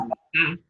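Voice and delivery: mesa wrongly said meSÁ; stress on last syllable. Shown as a demonstration. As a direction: throw the weight onto sa in mesa. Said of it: "No decimos mesa".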